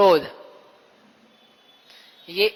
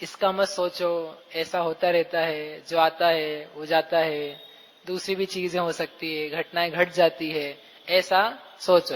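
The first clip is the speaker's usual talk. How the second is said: gentle consoling; 4 semitones lower, 3 dB quieter than usual. Retold or imitated. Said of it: "किसको बोल".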